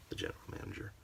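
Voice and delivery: hushed, ominous whisper; a mock reverent whisper; whispered aside. Real, not acted. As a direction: breathe the title in awe. Hushed name of the boss.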